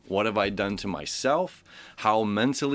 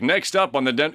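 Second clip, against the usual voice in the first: lightly imitated announcer voice, a bit louder; homeless man's radio voice; 2 semitones higher, 4 dB louder than usual. Astrologer imitating the homeless man's amazing voice, mock announcer. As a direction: give a hint of a big radio announcer. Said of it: "this, like, amazing voice".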